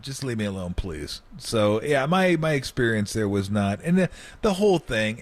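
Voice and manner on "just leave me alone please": soft, tired plea; weary. Retold or imitated. Player telling the coach to leave him alone, soft and weary. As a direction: drop it down, fed up. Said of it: "I go".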